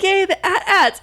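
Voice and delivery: excited yay. Retold or imitated. Excitedly naming movie walkers.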